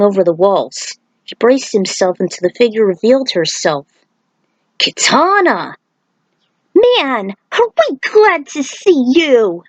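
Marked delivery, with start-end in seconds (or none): 4.8-9.6 relieved greeting. Acted.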